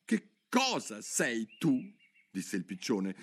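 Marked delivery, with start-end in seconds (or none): 0.1-2.0 high, slow, fretful bird voice; worried pigeon complaining on and on. Acted. (piccione ansioso che si lamenta)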